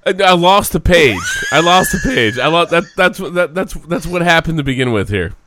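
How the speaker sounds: breathless after a laughing fit; winded from laughing, still chuckling; after laughing hard. Real, not acted. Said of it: "My stomach hurts from laughing".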